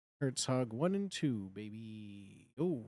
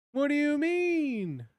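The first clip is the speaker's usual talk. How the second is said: much higher and louder, incredulous; more outraged disbelief; 10 semitones higher, 5 dB louder than usual. Real, not acted. Streamer even more baffled at the AI, pitched way up. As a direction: push the outrage further. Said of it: "Why does it keep saying swagger?".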